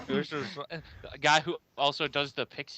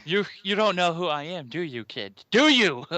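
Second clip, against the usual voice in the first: louder, hammed-up taunt; pompous villain taunt; 3 semitones higher, 5 dB louder than usual. Playing the arrogant old man taunting Naruto, hammed up. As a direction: taunt the kid like a smug villain.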